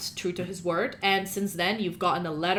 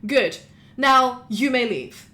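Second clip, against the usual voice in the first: slow, firm dismissal; curt lawyer dismissal; 4 semitones higher, 5 dB louder, slower than usual. Acted. Lawyer dismisses the guard, slow and firm. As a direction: send the guard off. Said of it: "and says".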